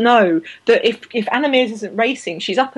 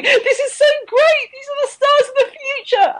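put-on young girls racing their hero, in a high thrilled kid voice; excited little girl. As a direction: gush like a thrilled young fan. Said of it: "very young girls going".

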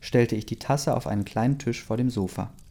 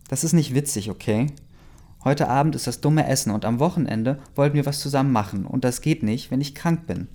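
defiant; 3 semitones higher than usual. Acted. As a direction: push back stubbornly. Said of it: "sagte ich trotzig".

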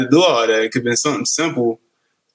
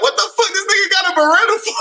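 high, fast disbelieving yell; reacting to the video, high and fast; mock outraged shout; faster than usual. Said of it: "I'm like".

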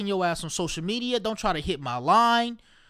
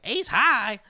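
put-on rapper meme; 3 semitones higher than usual. Quoting a meme about spades rules, mock incredulous. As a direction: throw it back as a meme-style challenge. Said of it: "they did the meme".

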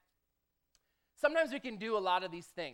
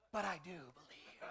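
sheepish protest; 3 semitones lower, 15 dB quieter than usual. Retold or imitated. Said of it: "I said".

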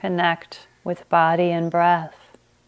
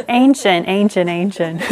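playful emphasis; 6 dB louder than usual. Real, not acted. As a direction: tease the word with amusement. Jokes after number slip.

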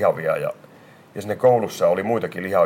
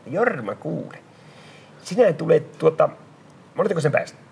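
stern teacher; 7 semitones higher than usual. Retold or imitated. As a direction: question the pupil like a strict schoolmaster. Teacher questions the boy. (opettaja kuulustelee oppilasta, tiukasti)

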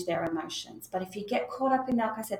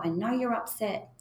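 calm but firm. Shown as a demonstration. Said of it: "You're letting them know".

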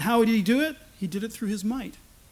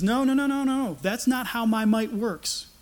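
retold rebuke; 3 semitones higher than usual. Jesus corrects Peter's idea of his might, rebuking. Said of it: "And Jesus rebukes him and says".

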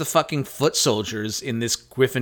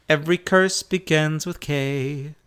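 laughing jingle; 3 semitones higher than usual. Pretend. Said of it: "I really liked that".

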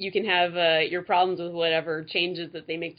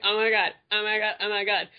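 gobsmacked; 3 semitones higher than usual. Pretend. Mock fan excitement.

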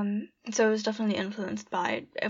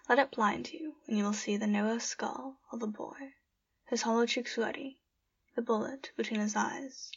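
poem reading. Acted. Reads her own poem aloud.

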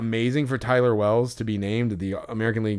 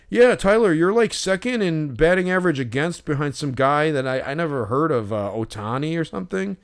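high, loud start that settles, mimicking a stat nerd; lightly mock the fan rattling off numbers; mock fan yell; 6 semitones higher, 3 dB louder than usual. Imitating the fan shouting stats while Wells signs, high then easing.

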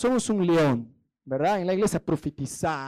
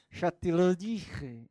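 slow pointed reproach; 4 dB quieter, much slower than usual. Retold or imitated. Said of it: "Empezás a decir así".

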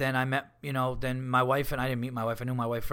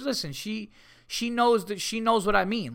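lightly imitating an earnest dog owner; higher-pitched, insisting on the point; a hint of the defensive pet owner; insistent dog owner; 5 semitones higher than usual. Accountant insisting dog understands.

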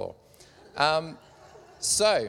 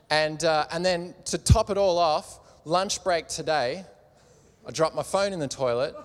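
exasperated Bob; 5 dB louder than usual. Acted. Bob's woes build to climax.

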